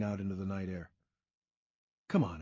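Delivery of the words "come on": pleading. A narrator's reading. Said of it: "I pleaded".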